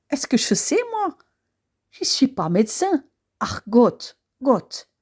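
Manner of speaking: put-on sleepy maid with a thick Alsatian accent. Maid answering Madame and Monsieur in a Feydeau rehearsal, sleepy Alsatian accent. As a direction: drag out the lines with drowsy, yawning Alsatian intonation. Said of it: "je dois prendre l'accent alsacien".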